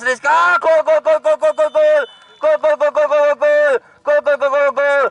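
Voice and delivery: long excited goal call; goal scream. Real, not acted. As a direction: roar the goal over and over.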